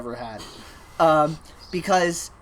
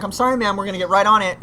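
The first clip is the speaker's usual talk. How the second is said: lightly put-on higher customer-service voice; customer-service nice voice; 5 semitones higher, 5 dB louder, faster than usual. Worker soothing an impatient customer across the store, put-on nice voice. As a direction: apologize in a mock-polite nice voice. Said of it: "I got my nice voice on".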